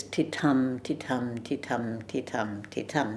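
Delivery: soft "ti", firm "tum", evenly repeated; iambic beat. Shown as a demonstration. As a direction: chant ti-tum with the weight on "tum". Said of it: "The rhythm itself is".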